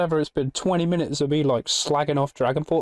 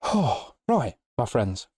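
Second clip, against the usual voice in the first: winded from talking a lot; sighing, short of breath; slower than usual. Real, not acted. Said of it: "I'm out of breath from bloody waffling".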